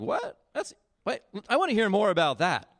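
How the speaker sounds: a high, startled "What?" that settles into eager curiosity; sudden interest from a young man hearing of a reward; surprised perk-up. Retold or imitated. David hears about the prize.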